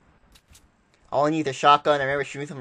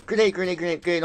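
higher urgent repeated warning; grenade warning yell; 5 semitones higher, faster than usual. Real, not acted.

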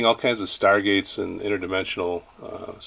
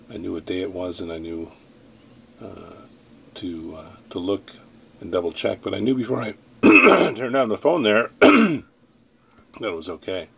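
stuffy nose from a sinus infection; nasal voice; 5 dB louder than usual. Real, not acted. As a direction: speak through a blocked, nasal head. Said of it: "nasally voice here".

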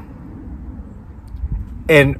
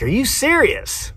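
high, soft, drawn-out question; quiet disbelief; 10 semitones higher, 6 dB quieter than usual. Retold or imitated. Winner hears what the splitter costs, quietly incredulous. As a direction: ask it slowly in hushed mock amazement.

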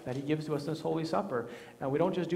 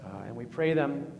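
prayer. Acted. Leads a spoken prayer.

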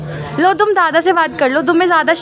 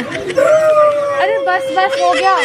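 sharp cut-off; 9 semitones higher, much slower than usual. Real, not acted. Girl cuts off fake crying.

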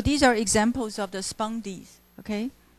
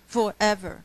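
"forever" read as separate beats, for-ev-er; syllables split apart. Shown as a demonstration. Teacher showing class "forever" split into separate beats. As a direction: break "forever" into even single syllables. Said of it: "把它变成单音节，forever".

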